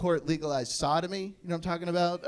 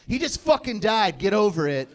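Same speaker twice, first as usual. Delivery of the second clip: gruff sergeant retort; 2 semitones higher, 3 dB louder than usual. Retold or imitated. Sergeant dismisses grieving trainee.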